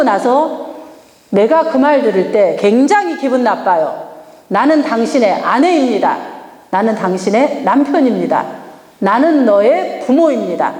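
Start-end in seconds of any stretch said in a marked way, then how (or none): 4.5-10.7 firm demo. Shown as a demonstration. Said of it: "이렇게 딱 얘기를 해요".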